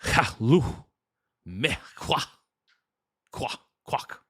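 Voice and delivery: halting Klingon, syllable by syllable; attempted Klingon. Shown as a demonstration. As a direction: try out guttural Klingon sounds. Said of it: "try my best to say these in Klingon".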